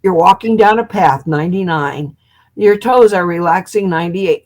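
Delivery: hypnotic countdown. Retold or imitated. Hypnotist on the earphones, soothing countdown. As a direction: lull her down the path like the tape. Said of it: "it goes".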